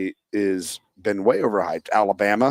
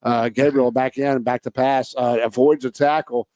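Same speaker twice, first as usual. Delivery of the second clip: announcer. Pretend. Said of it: "You need a little card to know the players' names".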